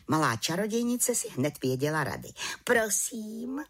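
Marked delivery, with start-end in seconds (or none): 2.6-3.6 whispered calmly, pitched high; little witch calmly whispers her answer. A narrator's reading. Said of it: "řekla klidně".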